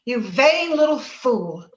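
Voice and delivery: slow, cutting contempt, each word weighed; contemptuous scolding. Acted. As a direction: spit it out slowly at a foolish sister. Sisters quarrel over Heathcliff.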